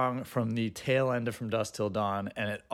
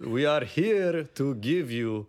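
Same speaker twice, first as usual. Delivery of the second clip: spooky voice; slower than usual. Acted. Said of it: "speak in this spooky voice".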